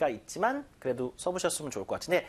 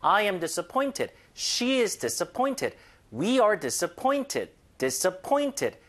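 slow demo; 2 semitones higher, much slower than usual. Shown as a demonstration. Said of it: "즉 상황이 아니라 사람이 와야 됩니다".

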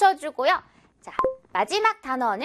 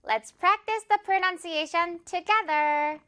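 very slow, higher teaching read; slow and clear; 5 semitones higher, much slower than usual. Shown as a demonstration. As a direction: spell it out slowly for learners. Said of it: "같이 한번 연습해보러". (아주 천천히 또박또박)

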